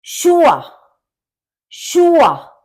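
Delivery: शुआ high and loud; German word demo. Shown as a demonstration. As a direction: call out शुआ clearly. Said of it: "दोनों का मिलाकर शा होता है". (शुआ ऊँचे और ज़ोर से)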